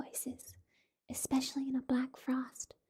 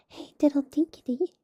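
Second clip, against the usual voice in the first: called out aloud, breaking the whisper; voiced call; 2 semitones higher, 11 dB louder than usual. Simpkin calling loudly to the mice. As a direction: sing it out loud.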